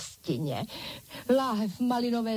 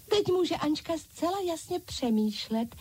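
high eager chorus of dolls; dolls calling out; 8 semitones higher than usual. A narrator's reading. Dolls echoing Ančka, high eager chorus. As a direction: echo her, higher, as the doll crowd. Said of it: "zvolali ostatní panenky".

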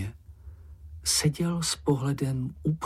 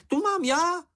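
very high, louder squeak of ownership; possessive little creature; 4 dB louder than usual. A narrator's reading. Čenich butting in with a high squeaky claim. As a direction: pipe up to claim it.

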